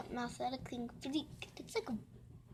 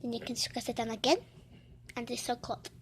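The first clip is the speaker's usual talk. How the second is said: whisper; 5 dB quieter, faster than usual. Real, not acted. Whispering while squishing toy.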